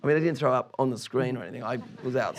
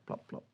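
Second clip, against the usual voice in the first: seat plop noise; 14 dB quieter than usual. Retold or imitated. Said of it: "the seats make big noises like".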